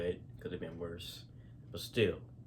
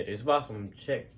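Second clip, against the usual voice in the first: stutter; 3 dB louder than usual. Real, not acted. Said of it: "I'm stuttering".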